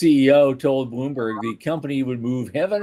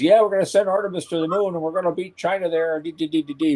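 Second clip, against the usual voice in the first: higher, brisk mock promise trailing into da-da-da; mock lip service; 4 semitones higher than usual. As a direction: rattle it off as an empty promise. Mimics officials' lip-service promises.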